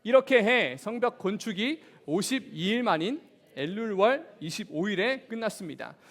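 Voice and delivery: big-voiced scripture read-aloud; loud reading aloud. Real, not acted. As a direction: read it out loudly, leading a congregation. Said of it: "큰 목소리로 함께 한번 읽어보겠습니다".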